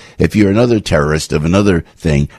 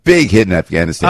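mock Taliban accent. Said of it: "is that a Taliban accent?".

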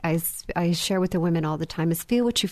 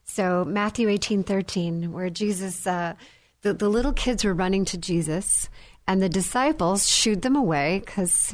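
ordinary talk

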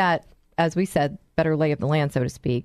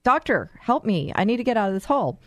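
higher-pitched mock yell for help, no real volume; lightly acted plea for help; mock calling out; 4 semitones higher than usual. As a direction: call up to a passer-by, half-hearted yell. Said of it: "you yell out".

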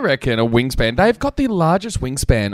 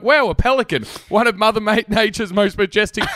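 mock awe; 7 semitones higher than usual. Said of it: "you're like".

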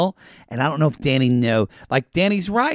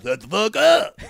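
laughing mock yell; 6 semitones higher than usual. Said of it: "And then Austin's like".

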